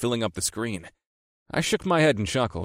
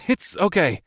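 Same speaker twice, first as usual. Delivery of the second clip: hurried reassurance; 9 semitones higher, 4 dB louder than usual. Acted. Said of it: "I hurried to reassure her".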